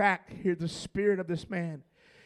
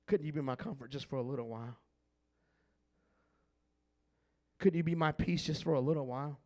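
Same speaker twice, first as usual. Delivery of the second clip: soft plea; 7 semitones lower, 8 dB quieter, faster than usual. Acted. David's quiet plea for comfort.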